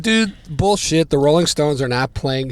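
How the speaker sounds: high, loud flat-out denial; scoffing denial. Retold or imitated. Fan refusing to believe his friend, loud scoffing. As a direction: call it nonsense outright.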